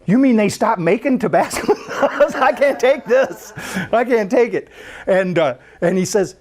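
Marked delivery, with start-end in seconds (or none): 0.0-4.7 mock trauma. Pastor mock-despairing over Tabasco, laughing. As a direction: ham up the heartbreak. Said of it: "now I'm gonna be really traumatized".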